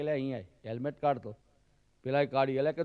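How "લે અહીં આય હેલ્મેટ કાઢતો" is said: નીચા, ધીમા સ્વરે હળવો કડક એમ્પાયર; બેટ્સમેનને બોલાવતો એમ્પાયર, નીચા અવાજે; એમ્પાયરનો હુકમ. Retold or imitated. Umpire calls the batsman over. (Umpire બેટ્સમેનને helmet કાઢવા કહે, નીચો હળવો હુકમ)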